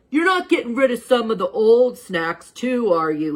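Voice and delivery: put-on a kid anxious about losing his snacks; worried kid. Charlie asking the teacher about old snacks, worried kid voice.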